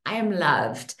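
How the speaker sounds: calm, measured affirmation. Acted. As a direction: state it as settled truth. Leads repeated beliefs.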